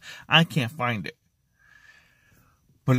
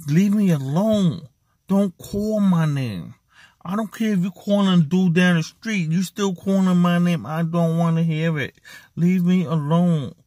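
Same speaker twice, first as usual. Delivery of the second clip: pleading to be left alone; 3 semitones higher than usual. Retold or imitated. Depressed man to whoever calls his name, pleading to be left alone. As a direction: push people away, stretching the key words.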